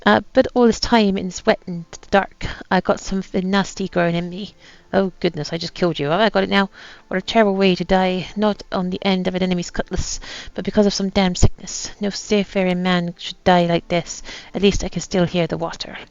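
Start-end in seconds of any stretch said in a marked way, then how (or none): 0.1-4.5 put-on light pirate accent reading a captain's journal; lightly voiced pirate accent, a gruff old sea captain. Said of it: "you don't have to put up this accent anymore". 6.1-16.0 put-on light pirate accent reading a captain's journal; lightly voiced pirate accent, a gruff old sea captain. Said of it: "you don't have to put up this accent anymore".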